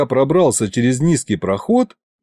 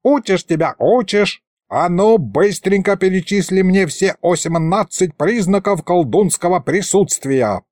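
high-pitched scolding, not really shouted; exasperated old sorcerer; 6 semitones higher than usual. A narrator's reading. Old sorcerer quizzes his dim pupil, exasperated. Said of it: "завопил Мировид".

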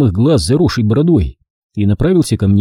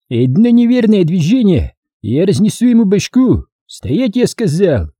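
raised-pitch commander's threat; угрожающий приказ; 9 semitones higher than usual. A narrator's reading. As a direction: threaten the crowd to hold it still. Командир угрожает, держа заложника. (угроза повышенным голосом)

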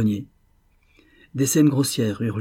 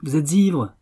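louder, higher outburst; exclaimed; 5 semitones higher, 4 dB louder, slower than usual. Acted. Purvis exclaiming at drunk Rosenthal, raised voice. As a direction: throw the accusation at him. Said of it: "s'écria-t-il".

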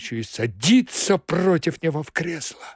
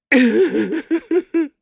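high, loud nervous laugh; hysterical laugh; 14 semitones higher, 7 dB louder than usual. Acted. Secretary recalling the vanishing, hysterical laugh.

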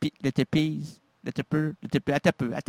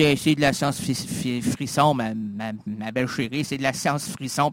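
bragging himself; 7 semitones lower than usual. Retold or imitated. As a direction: drop low and play the brave man. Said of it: "J'ai dit".

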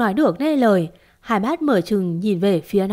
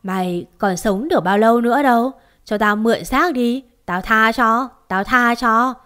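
hellish demon voice; 3 dB louder than usual. Acted. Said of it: "giọng nó âm chỉ địa ngục".

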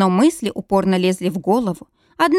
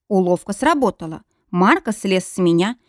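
ordinary delivery, nothing marked

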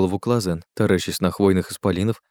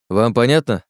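firm question, moderately raised; firm check; 3 semitones higher, 4 dB louder than usual. Acted. Oleg demands the group's agreement, firm but contained. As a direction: ask "понятно" firmly, without a shout.

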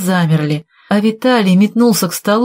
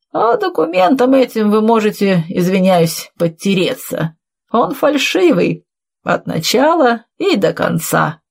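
higher-pitched, mock-polite dismissal; watchman character; 4 semitones higher than usual. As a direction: play the watchman politely debunking it. Watchman dismisses the forged will. (голос сторожа, издевательски вежливо)

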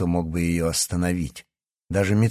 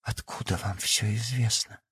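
much softer stunned question; 9 dB quieter than usual. Acted. Yana asking the professor, stunned and hushed. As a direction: ask under your breath.

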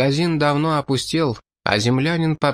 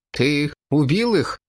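slow, higher-pitched, effortful question; laboured exhalation; 4 semitones higher than usual. A narrator's reading. Stunned companion asks about the killing, breathing it out. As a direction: get the question out with some difficulty. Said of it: "с трудом выдохнул Вилл".

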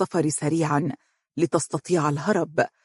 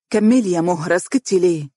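serious; 3 dB louder than usual. Acted. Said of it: "وتقول بجدية".

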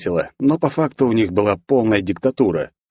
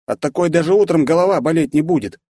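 high, boisterous buddy voice; hearty guy voice; 8 semitones higher than usual. A narrator's reading. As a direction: voice the jovial drinking pal. Alexey boasting about his vodka.

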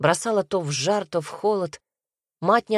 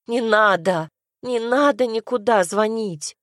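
pleading not to call, lightly raised; mild cry; 4 semitones higher than usual. Acted. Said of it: "прокричала она". (слегка выкрикнуто)

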